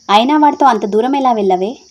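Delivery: loud, exasperated telling-off; scolding shout. Acted. Friends blame Tara for going off with him, scolding loudly. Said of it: "ఇప్పుడెందుకు నా మీద అరుస్తున్నారు?".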